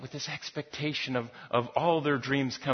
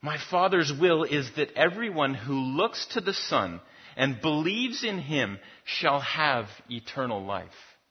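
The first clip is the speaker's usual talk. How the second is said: 1 slow scripture reading. Acted. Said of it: "He says".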